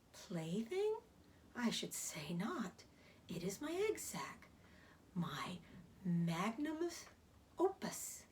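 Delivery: lightly voiced weary spider, soft and hushed; Charlotte, tired spider. Tired spider explaining her egg sack to Wilbur, hushed. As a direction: hush it, tired but proud.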